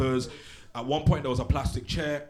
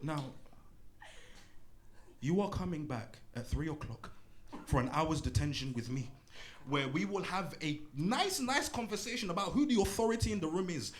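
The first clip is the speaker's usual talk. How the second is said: teacher quietly giving Rashad detention; quiet menacing teacher; 4 semitones higher, 6 dB quieter than usual. Acted.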